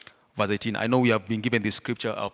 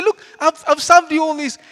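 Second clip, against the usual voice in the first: much higher and louder indignant cry; ranting yell; 12 dB louder than usual. Retold or imitated. Older brother to his father, loud mocking rant. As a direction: shout it like an outraged son. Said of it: "He's ranting".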